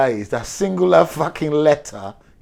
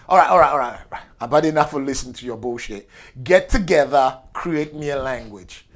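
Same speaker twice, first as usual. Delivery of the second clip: fed-up boss; 4 dB louder than usual. Acted. Fed-up boss orders translators.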